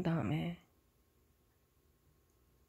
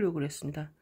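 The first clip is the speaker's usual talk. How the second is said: ordinary talk, nothing marked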